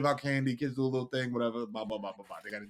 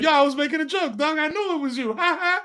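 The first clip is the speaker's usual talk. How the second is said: forced joking laugh; 5 semitones higher than usual. Retold or imitated. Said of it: "I had to be like".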